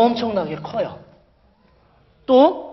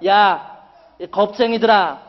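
mocking challenge, rising higher and louder; taunting; 3 semitones higher, 4 dB louder than usual. Goliath taunts the cowardly Israelites to come out and fight, mocking. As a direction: jeer at them, building in pitch and force. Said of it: "이스라엘 백성들을 놀렸어요".

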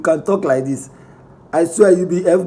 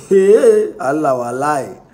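laughing hey; 3 semitones lower, 4 dB louder, slower than usual. Real, not acted. Laughing reaction to rival's tweet.

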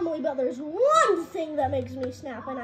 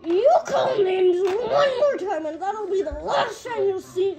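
laughing threat. Acted. Threat delivered while laughing.

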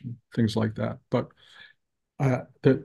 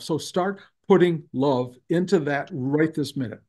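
higher-pitched, emphatic mock lecture; retold scolding; 4 semitones higher than usual. Teacher lecturing the tense cook about love, retold scolding. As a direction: imitate a teacher hammering the point home. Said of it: "he's yelling at me".

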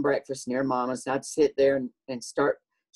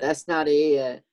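drawn-out echo; 3 dB louder, slower than usual. Acted. Echoes it in drawn-out drawl.

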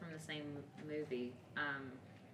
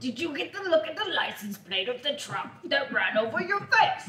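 Rocky quote; 5 semitones higher than usual. Retold or imitated. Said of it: "That's also a Rocky quote".

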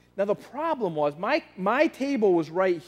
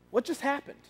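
confused; 6 semitones higher, 5 dB quieter than usual. Retold or imitated. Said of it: "he was very confused".

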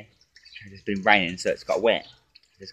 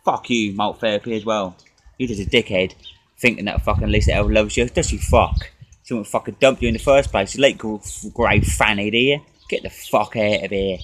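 angry rant; 4 dB louder than usual. Real, not acted. Insulting a rival drinker.

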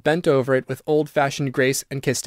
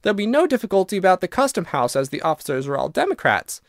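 put-on higher, chatty girl's voice; lightly voiced girl, pitched up; lively young Virginia; 5 semitones higher than usual. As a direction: brightly persuade a reluctant ghost.

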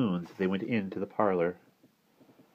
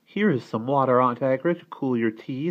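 put-on eager child; 7 semitones higher, 6 dB louder than usual. A narrator's reading. Child offers aunt water.

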